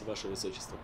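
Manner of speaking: quick hushed whisper. Acted. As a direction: whisper it fast and secret. Secret whisper to princess.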